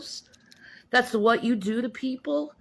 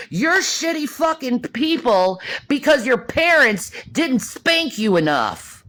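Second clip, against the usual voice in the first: louder repeat, hammering each word; shouted insult; 5 dB louder than usual. Real, not acted. Telling the younger generation off, louder. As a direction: say it to their face, loud. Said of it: "I'll say it to your fucking face".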